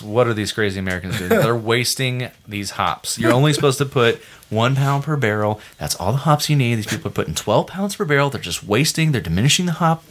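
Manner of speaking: indignant German brewers. Retold or imitated. Mocking old-guard Germans griping about American craft brewers, indignant. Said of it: "said this all with a very nice German accent".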